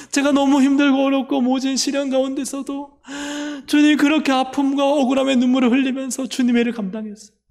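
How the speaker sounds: high-pitched, mock-weeping cry to the Lord; acted tearful outpouring. Believers reaching heaven pour out their trials to Jesus, tearful pleading. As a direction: plead as if overcome by tears, easing at the end. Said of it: "막 울음바다 되는 거예요".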